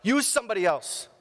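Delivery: high anxious plea to God. Retold or imitated. Nervous believer begging God to choose another, high pleading. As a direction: beg God to pick someone else.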